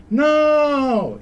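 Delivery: sudden high shouted no; a sharp cry of protest; Cyril's shout. Retold or imitated. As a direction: yell it out in alarm. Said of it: "il grido di Cyril".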